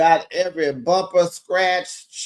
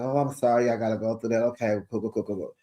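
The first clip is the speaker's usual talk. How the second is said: softer, trailing mock apology; mock apologetic; 5 semitones lower, 6 dB quieter, much faster than usual. Man apologizing to the family, softer and fading. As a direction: fake sorry, fading out. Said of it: "He was all apologetic".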